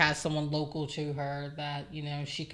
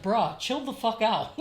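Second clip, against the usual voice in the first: laughing, exasperated bruh; exasperated mom; 6 semitones higher, 4 dB louder than usual. Retold or imitated. Mom scolding her son, laughing exasperation. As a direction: tell the kid to chill, half laughing. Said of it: "I'd be like".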